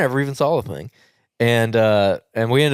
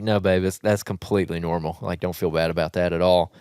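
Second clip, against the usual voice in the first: lower, softer comforting tone; retold reassurance; 5 semitones lower, 3 dB quieter than usual. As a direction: gently reassure your partner, understated. Reassuring his upset wife, retold.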